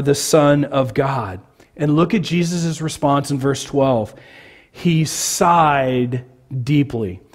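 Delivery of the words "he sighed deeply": slow, weary reading of sighed deeply; slowly, with a tired exhale; drawn-out sigh reading. Shown as a demonstration. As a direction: let the words sag like a sigh. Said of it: "That word is where we kind of get exasperated".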